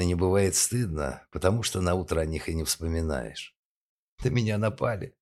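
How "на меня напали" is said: sobbing. Acted. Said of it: "сквозь рыдание пояснила она".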